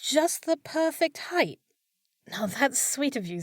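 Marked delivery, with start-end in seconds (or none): 0.0-1.6 flattered echo. Acted. Maid echoes wizard's flattery.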